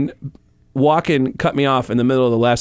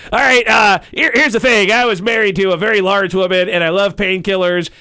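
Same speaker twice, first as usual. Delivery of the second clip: Tom Arnold impression; 4 semitones higher than usual. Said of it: "Do your Tom Arnold".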